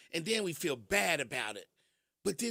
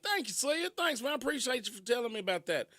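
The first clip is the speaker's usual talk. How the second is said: high, bright mock thanks from a fan; grateful viewer; 5 semitones higher than usual. Imagined viewer thanking Celia, high mock gratitude. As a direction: play a thrilled viewer thanking her.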